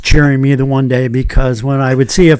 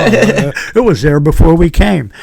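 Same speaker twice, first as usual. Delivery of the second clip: higher-pitched mock student protest; protesting excuse; 4 semitones higher, 3 dB louder than usual. Students at the table excusing themselves to the teacher, mock protesting. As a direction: plead innocence as the kids did.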